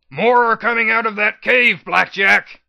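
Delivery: high, loud warning; yell. A narrator's reading. P twenty-one yells a warning across the gravel pit. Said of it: "he yelled".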